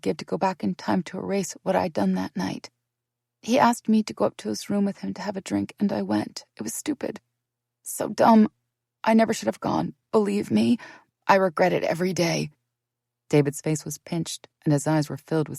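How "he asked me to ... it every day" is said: raised, urgent pleading; pleading confession. Acted. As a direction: plead to be believed.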